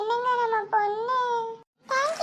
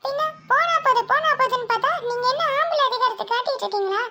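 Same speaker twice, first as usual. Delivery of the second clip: angry; 3 semitones higher than usual. Acted. Wife snaps back at husband.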